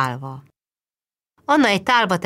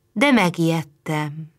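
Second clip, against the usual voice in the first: ordinary delivery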